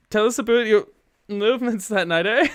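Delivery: Canadian "about" said as "a boot"; "about" with the Canadian a-boot vowel; mock Canadian judge saying "about" like "a boot"; Canadian accent. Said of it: "about was spelled as a boot".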